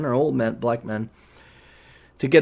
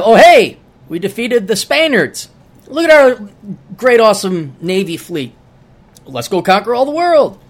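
boasting Brit; 5 semitones higher, 6 dB louder than usual. Pretend. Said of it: "And then".

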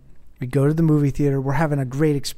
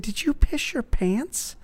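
hushed, much higher, slow whisper; 10 semitones higher, slower than usual. Retold or imitated. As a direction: whisper it so nobody hears. Dad whispering in theater.

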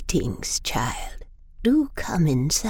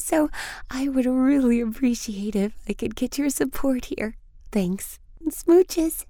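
overly sweet mother, rising higher; sugary mom voice; 4 semitones higher than usual. Acted. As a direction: coax the boys, climbing into high pitch. Mother addressing her boys.

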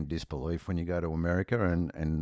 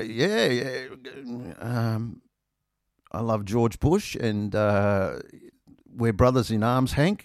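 mock enthusiasm; 5 semitones higher, slower than usual. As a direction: ham up the patriotic bloke. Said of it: "So I said".

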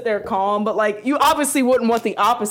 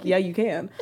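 lower, softer unbothered reply; calm; 4 semitones lower, 5 dB quieter than usual. Retold or imitated. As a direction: answer as the unruffled boyfriend. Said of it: "Why are you so calm?".

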